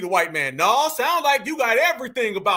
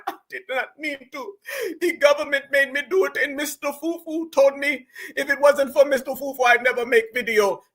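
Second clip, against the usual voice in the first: mock crying. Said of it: "Now she crying".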